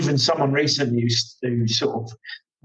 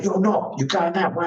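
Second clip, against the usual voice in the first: mock marshal; 5 semitones higher than usual. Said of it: "he's like".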